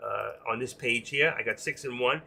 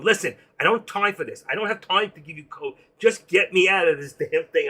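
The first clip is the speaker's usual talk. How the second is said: urgent, pushy, a bit louder and higher; retelling a frantic plea to get out fast; panicked demand; 4 semitones higher, 5 dB louder than usual. Retold or imitated. Trader panicking at the broker on the phone, urgent demand. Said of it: "I'm freaking out".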